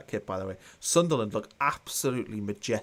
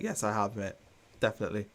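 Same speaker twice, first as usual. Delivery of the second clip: dry sarcastic yes; deadpan, mildly sarcastic reply. Real, not acted. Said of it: "I'm only being sarcastic".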